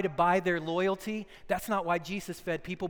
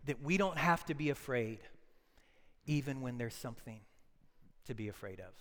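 tender; 6 semitones lower, 6 dB quieter than usual. Acted. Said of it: "here's the little statement".

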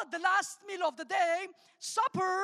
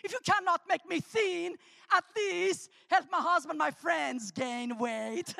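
mock prayer. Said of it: "I've been praying".

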